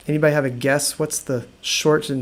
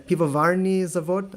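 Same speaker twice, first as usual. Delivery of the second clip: Russian phrase; 3 semitones higher than usual. Shown as a demonstration. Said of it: "I believe in Russian".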